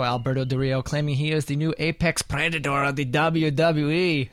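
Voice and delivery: half-hearted wrestler impression; bad Alberto Del Rio impression. Host announcing a wrestler's claim, bad impression. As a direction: do a poor mock wrestler's boast. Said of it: "That was a bad impression".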